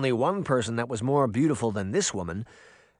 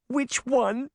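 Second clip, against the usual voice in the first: high eager question; excited; 12 semitones higher than usual. Acted. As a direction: burst out, eager to know. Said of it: "barely able to contain her excitement".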